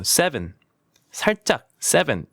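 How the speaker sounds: "seven" short and unforced; easy model "seven" without pushing; light, correct pronunciation. Shown as a demonstration. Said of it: "너무 힘주면 안 됩니다".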